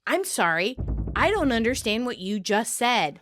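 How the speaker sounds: mild, level disbelief; flabbergasted deadpan. Retold or imitated. Monica answering a plea to let them win, flabbergasted. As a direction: deliver it evenly, barely reacting. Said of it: "Monica, flabbergasted, says".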